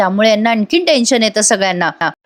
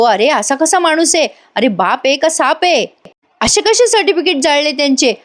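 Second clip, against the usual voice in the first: higher-pitched retold indignation; mock outrage; 5 semitones higher than usual. Friend reacts to a father burning certificates, imitated outrage. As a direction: imitate someone appalled and asking in disbelief.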